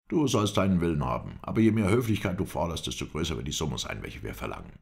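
lightly voiced captor, starting high and loud; stern captor. Captor warns prisoner the sum will rise, mildly stern. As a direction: start forcefully, then let it drop away.

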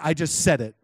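understated imitation of a blunt answer; matter-of-fact admission. Prophet repeating his answer to his guest, matter-of-fact. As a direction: state it simply, as settled fact. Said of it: "That's how he said it".

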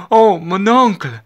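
high, loud, drawn-out exclamation of delight; blushing girl's squeal-like cry of thanks; flustered delighted young lady. A narrator's reading. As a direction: gush at your uncle, stretching it out high. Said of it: "зашарілася панночка".

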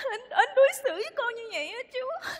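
tearful complaint. Acted. Girlfriend complaining to the uncle.

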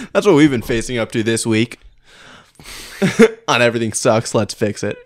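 loud anime announcer voice; fighting game announcer. Acted. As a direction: hype up the show title. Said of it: "my announcer voice".

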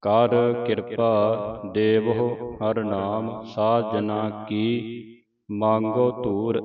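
slow, drawn-out reading of verse; scripture recitation. Acted. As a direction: recite it slowly, word by word. (ਧੀਮਾ ਗੁਰਬਾਣੀ ਪਾਠ)

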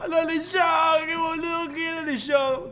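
high, jeering call. Acted. Teasing the one who read it aloud, high jeer. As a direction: crow over the one who fell for it.

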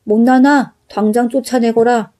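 greedy rich man bellowing; angry yell. Acted. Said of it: "버럭 큰 소리를 질러댔어요".

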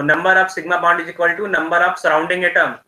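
very slow, deliberate dictation; slowly. Real, not acted. Teacher dictates slowly to online students with a bad connection. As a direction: drag every word out clearly. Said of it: "थोड़ा मैं slowly, slowly बोल रहा हूँ".

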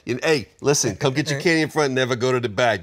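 put-on candy-store guy warning a kid off the back room; shady shopkeeper.

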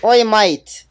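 hammed-up British "Oi, mate!"; bad put-on British accent; terrible British accent. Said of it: "I'ma use my terrible accent".

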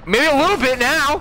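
high, loud teasing outburst; playful shout. Real, not acted. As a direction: blurt it out half-joking. Jokingly admits being mad.

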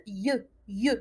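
ي said as a "yuh" glide. Shown as a demonstration. Teacher showing learners Y beside A, ي as a y-glide. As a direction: glide quickly into ي like a y. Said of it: "je le prononce".

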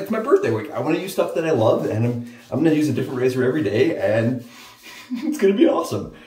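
playfully bouncing with birthday glee; excited self quote. Retold or imitated. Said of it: "'cause I was like".

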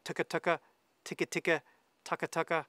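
"tucka tucka, ticka ticka" said quick, light, rolled together; tongue-rhythm syllables. Shown as a demonstration. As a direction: rattle off "tucka tucka" like fast feed-call notes. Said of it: "I'm kinda going".

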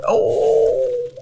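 very high, loud startled oh; startled yelp. Real, not acted. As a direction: yelp as the trap springs. Trap springs on him.

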